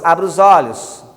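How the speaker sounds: loud command. Shown as a demonstration. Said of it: "Outras pessoas".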